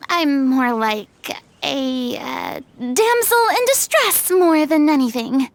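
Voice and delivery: smug. Acted. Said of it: "That sounded so smug".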